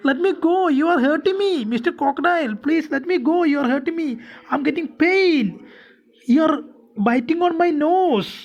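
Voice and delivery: lightly acted cry to be released; mild mock scream. Golu tells the crocodile it is hurting him, mild mock scream. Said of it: "screamed Golu".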